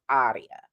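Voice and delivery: "Aria" with the tongue barely tapping the R; Italian flipped R. Shown as a demonstration. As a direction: tap the R of "Aria" lightly at the front. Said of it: "just barely touches the top of your mouth".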